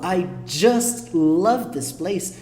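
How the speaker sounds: "I just love this place" slow, with heartfelt weight on "just". Shown as a demonstration. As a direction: lean into "just" with real affection. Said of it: "eu coloquei mais sentimento, mais força".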